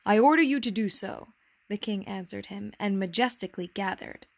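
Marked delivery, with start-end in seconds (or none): 0.1-1.3 louder, mildly imperious order; commanding. Acted. King grants the prince a seat, commanding. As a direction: decree it like a monarch.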